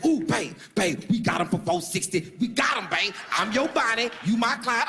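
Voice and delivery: high, sing-song gushing; mock excited girlfriend. Date brags to boyfriend, mock excited gushing. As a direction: gush like she won.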